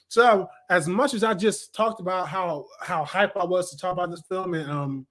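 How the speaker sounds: talking while chewing gum; words round a wad of gum. Real, not acted. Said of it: "excuse me, I'm chewing gum".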